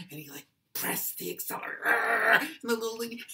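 loud, high, frantic narration; frantic witness. Acted. Witness tells of driver accelerating at lady, frantic and loud. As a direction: race toward the crash in alarm. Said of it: "one guy might say".

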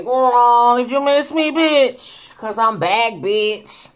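high, loud diva greeting; excited. Real, not acted. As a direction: squeal it to the viewers. Greeting viewers after her return.

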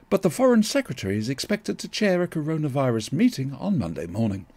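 steady newsreader bulletin read; breaking news voice. Pretend. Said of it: "my breaking news voice".

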